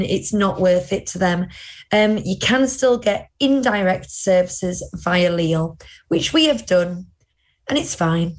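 speaking between hiccups; hiccuping. Real, not acted. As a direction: talk through the hiccups. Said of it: "Sorry, I'm hiccuping".

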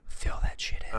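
breathy whisper, no voice. Acted. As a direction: hiss it under the breath. Whispered echo of the host.

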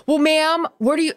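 exasperated high mock yell; mock screaming. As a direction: imitate a screechy scolding attendant. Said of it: "started screaming like".

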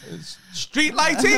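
loud, high, drawn-out answer; mock keen answer. Pupil answering the course instructor, mock-keen high voice. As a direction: sing out the answer with exaggerated eagerness.

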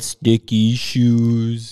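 very slow, drawn-out sultry line; Phoebe sultry voice. Retold or imitated. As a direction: stretch it out like a smoky singer. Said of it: "deep, sultry voice".

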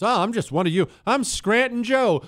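a touch of the just-one-of-you politician; mock Scranton Joe. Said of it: "everything's a put on with these politicians".

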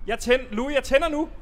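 high-pitched alarmed announcement; high nervous warning. Acted. Host warning Louis he is lighting it, high nervous call. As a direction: warn him, wound up and jittery.

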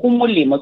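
"Gumolemo" with the g rasped like kh; throaty G in Gumolemo. Shown as a demonstration. Showing how the listener would copy it, throaty g in Gumolemo. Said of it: "you're going to pronounce it as".

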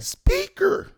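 very high, loud incredulous cry; outraged disbelief. Retold or imitated. Son learns he is on speaker, retold outrage. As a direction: act out an indignant squawk.

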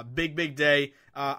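ordinary talk

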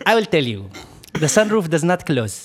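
imitated Arab car salesman; Arab accent. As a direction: explain it in a put-on Arab accent. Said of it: "I'm gonna try to talk to his accent".

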